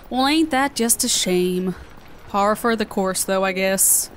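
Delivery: light southern twang; southern accent. Real, not acted. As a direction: let a southern accent slip out. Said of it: "have such a southern accent today".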